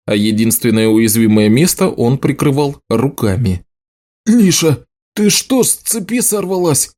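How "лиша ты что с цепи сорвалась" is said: breathless, pitched high and strained; winded, forcing the words out after a kick; gasped out. A narrator's reading. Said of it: "выдохнул Гаррет".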